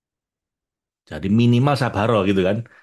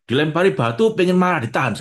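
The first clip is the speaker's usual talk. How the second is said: louder, higher pent-up anger; held-back anger; 8 semitones higher, 4 dB louder than usual. Retold or imitated. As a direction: voice straining to hold back rage. Acting out holding back anger.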